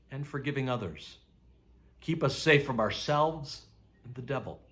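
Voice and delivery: unhurried, plain prayer spoken to the Father; simple prayer. Shown as a demonstration. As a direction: pray it simply and honestly. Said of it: "you can pray very simply, like this".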